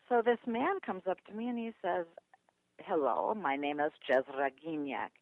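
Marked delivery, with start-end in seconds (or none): 2.8-5.1 lightly imitated Polish accent, lower-pitched introduction. Man from Poland greets her at a meeting, light Polish accent. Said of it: "and I hear an accent".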